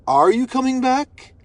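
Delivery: pointed retold question; imitating serious questioning. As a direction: draw out dad's doubting question, rising at the end. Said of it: "he sounded so serious when he said it".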